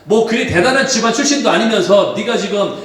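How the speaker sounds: preacher hamming up the scornful critics; mocking sneer. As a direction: scoff at him as a carpenter's son. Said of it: "유대인들이 핀잔하고 조롱하는".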